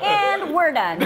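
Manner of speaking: high, laughing "we're done"; laughing mock exit. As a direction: toss it off through laughter, mock huffy. Mock storming off from lesson.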